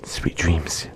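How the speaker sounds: soft, hushed goodnight murmur; sleepy bedtime whisper. Acted. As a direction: soothe them off to sleep. Lulling the hiker to sleep.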